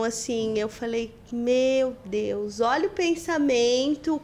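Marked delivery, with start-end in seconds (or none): 1.3-4.2 mild retold amazement. Mãe reage à fala do filho. (espanto crescente, relatado)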